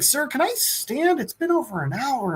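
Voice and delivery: pleading underling. Retold or imitated. Posing man asks the king to stand, mock pleading. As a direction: imitate a weary subject begging permission. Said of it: "And he's like".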